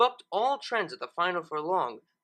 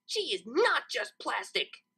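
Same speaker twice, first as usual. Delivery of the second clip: mild retort; 6 semitones higher, slower than usual. Acted. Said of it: "Lyra shot back".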